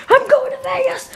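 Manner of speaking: high laughing yell; laughing shriek. Acted. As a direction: cackle it out with joy. Laughing celebration.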